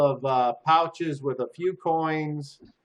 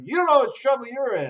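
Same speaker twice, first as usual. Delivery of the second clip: much higher, fast mocking parrot; mocking prisoner; 12 semitones higher, much faster than usual. Prisoner parrots the guard in a high mocking voice. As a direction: mimic the guard to mock him. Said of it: "He's like".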